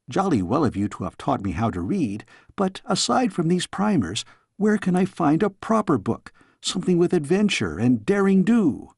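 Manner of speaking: put-on a cheeky young princess; curious young girl. Girl questions her tutor.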